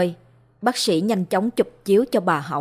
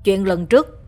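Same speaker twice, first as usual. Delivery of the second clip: snapping. Acted. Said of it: "Chú ta quát".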